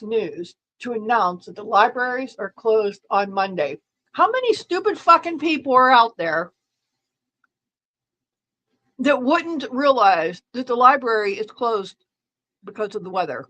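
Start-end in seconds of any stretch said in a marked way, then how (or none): 4.1-13.4 loud, high exasperated rant; angry rant. Real, not acted. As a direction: vent at the stupidity. Ranting at the library alert.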